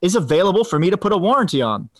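mock offended. Pranking a warranty caller, hammed-up slow offended dignity. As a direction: play the wounded gentleman, slowly. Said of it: "And I said".

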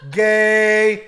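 loud high burst of laughter; laughing. Real, not acted. Group laughter.

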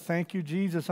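a quiet private thank you to Jesus; under my breath. Retold or imitated. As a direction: breathe it out to yourself. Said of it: "under my breath".

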